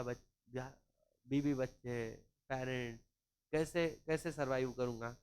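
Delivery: low, soft mock plea for his job; imitating a fired worker pleading softly; pleading employee. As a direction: beg quietly, voice dropped low. Employee begging boss not to fire.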